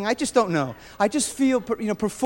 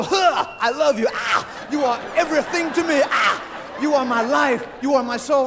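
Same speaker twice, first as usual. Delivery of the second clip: Imitating a singer. Acted. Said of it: "I wanna be one singer or another".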